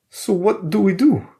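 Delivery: high, loud, scared question; voice quivering with fear. Acted. Alexei asking the group for a plan, high and scared. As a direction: fear pushing the voice up. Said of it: "his voice quivering with fear".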